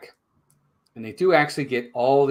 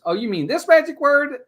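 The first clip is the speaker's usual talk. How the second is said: mock smug reveal; 6 dB louder than usual. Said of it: "And he goes".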